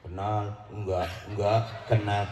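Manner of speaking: a hint of a meek, unsure reply; meek mumble. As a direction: mumble the answer like a wavering man. Imitating the men's meek flip-flop answer.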